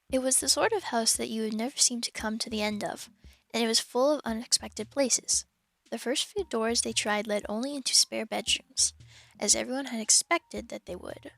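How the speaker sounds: measured, clear audiobook reading; steady storybook narrator; story narration. A narrator's reading. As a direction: read the story aloud to listeners. Reads the novel aloud to stream.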